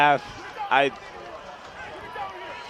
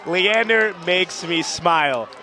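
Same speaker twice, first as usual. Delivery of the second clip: thrilled; 5 semitones higher, 3 dB louder than usual. Real, not acted. Thrilled after touchdown.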